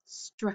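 "str" cut off before its vowel ending; final sound deleted. Shown as a demonstration. Teacher shows students straw without its last sound, final sound deleted. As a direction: say only the opening consonants "str", no "aw". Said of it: "delete that final sound".

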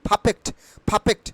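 "perfect" with the R left silent. Shown as a demonstration. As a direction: say "perfect" as "paa-fekt", no R. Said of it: "আটি দেখতে পাচ্ছ, সেটা উচ্চারিত হবে না". ("perfect"-এ R উচ্চারণ না করে)

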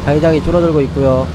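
brisk play-by-play caster voice; sports commentator. Acted. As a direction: call the match like a live caster. Mock commentary on game.

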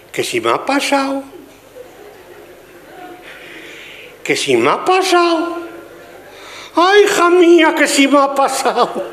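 high, slow, wailing lament; hammed-up grief, dragging each phrase; a woman wailing that something awful happened, in mock anguish; distraught woman. Distraught woman answering her friend.

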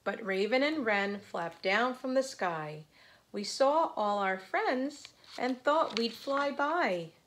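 lively, measured picture-book narration; read-aloud to children. A narrator's reading. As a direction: read it out rhythmically for little listeners.

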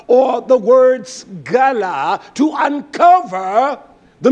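emphatic preaching with punched key words. Real, not acted. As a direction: teach scripture like a forceful preacher. Preaches from scripture.

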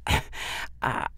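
slow, halting repeat with a breathy start; mother repeating herself, shaken; faltering. A narrator's reading. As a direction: stumble over the first word, shaken. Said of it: "cleared her throat and repeated herself".

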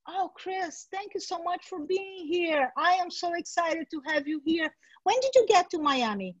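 bright, eager host voice; a fawning TV host greeting a guest; gushing interviewer. Shown as a demonstration. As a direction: play the overly excited interviewer. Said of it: "So the first question you ask".

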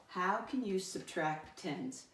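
put-on slow, spaced-out question for children; slow read-aloud. Shown as a demonstration. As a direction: read the question word by word, slowly. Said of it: "I'm gonna read the essential question".

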